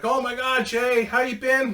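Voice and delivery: mock overjoyed welcome; excited greeting. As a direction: greet an old friend you are thrilled to see. Friends greet him happily.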